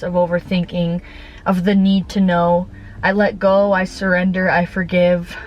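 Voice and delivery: measured, even recital of affirmations; spoken affirmations. Real, not acted. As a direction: recite each statement steadily, like a personal mantra.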